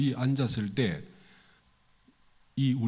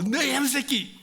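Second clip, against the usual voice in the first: put-on drunk father yelling; 9 semitones higher than usual. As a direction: blast it at the boy, half in jest. Drunk father yells at son again.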